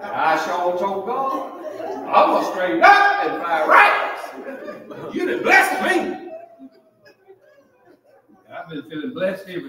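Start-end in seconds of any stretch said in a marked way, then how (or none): 1.8-6.3 joyful vow. Retold or imitated. Preacher recalls thanking God.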